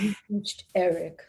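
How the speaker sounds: lightly imitated deep male voice; Eric Duro. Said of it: "this deep voice".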